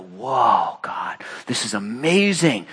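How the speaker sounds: slow, lightly acted awe; imitated wonderstruck reaction; marvel and wonder. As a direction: marvel at it, drawing out "amazing". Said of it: "to be in marvel and wonder".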